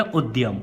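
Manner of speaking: उद्यम said ud-yam, with d and y joined; उद्यम, short u and a tight dy cluster; correct pronunciation. Shown as a demonstration. Teacher revealing the true reading, a tight dy in udyam. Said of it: "है क्या है हकीकत में".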